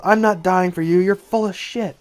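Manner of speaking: loud, high, heated retort; angry defiance. Acted. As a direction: throw the threat back at them angrily. Deserter defies commander's threat.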